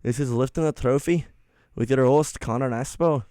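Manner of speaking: station intro in mock Scottish accent. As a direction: announce it with a put-on Scottish accent. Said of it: "why can't I do it now?".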